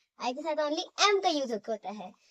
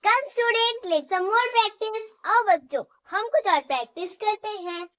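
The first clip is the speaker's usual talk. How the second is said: loud and high, calling the class to practise; rallying call to class; 7 semitones higher, 7 dB louder than usual. Real, not acted. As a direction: cheer the students on to the next exercise. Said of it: "teacher rallying class".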